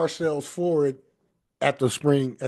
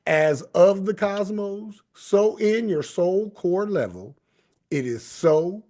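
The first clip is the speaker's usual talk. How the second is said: closing blessing. Acted. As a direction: bless them as you close the show. Closing benediction.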